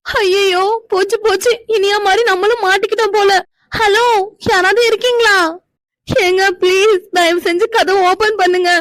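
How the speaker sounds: high, anxious calls for help; calling out, half panicked, hoping someone hears; scared calling out. Acted. Girl trapped alone, calling through the door, scared.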